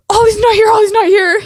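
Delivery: high, loud, frantic cry; husband panicking over the missing dog; panicked. Retold or imitated. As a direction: imitate a husband freaking out. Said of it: "And he's freaking out".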